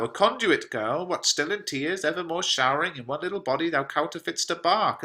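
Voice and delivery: father chiding his crying daughter, a touch stern; Capulet scolding. Acted. Reads Capulet's lines.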